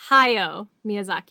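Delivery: "Hayao" said slowly as hai-yow, blending A and O; "Hayao Miyazaki" spoken slowly, mee-ah-ZAH-kee; careful pronunciation. Shown as a demonstration. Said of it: "It's a blend of an A and an O sound".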